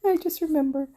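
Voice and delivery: high, laughing apology. Real, not acted. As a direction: laugh through it.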